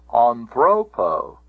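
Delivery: anthropo said slowly, stress on "thro"; stress on penult. Shown as a demonstration. Teacher proving the accent rule, anthropo stressed on "thro". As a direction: put the weight on "thro" in anthropo. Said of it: "It cannot get back to the".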